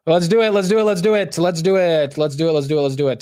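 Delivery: high, loud rapid-fire self-hype that gradually settles; hyped-up repetition. Real, not acted. Streamer hyping himself up to buy some Nvidia, excited. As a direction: psych yourself up, starting high and loud, then easing down.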